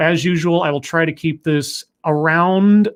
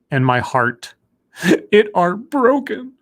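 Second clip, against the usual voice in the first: slow, hammed-up sadness climbing higher; mock heartbroken; 3 semitones higher, much slower than usual. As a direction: play up a broken heart for laughs. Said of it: "I'm just really sad".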